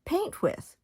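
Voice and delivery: "paint with" set apart slowly, as if in quotes; pause, then put verbal quote marks round "paint with"; air-quoted phrase. Real, not acted. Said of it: "when I put it in quotes".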